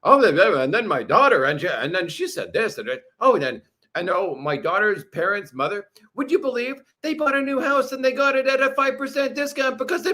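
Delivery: hammed-up chatty bore, rambling; mock a guy who won't stop talking; babbling parody of a barfly; mocking babbler. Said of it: "It's like".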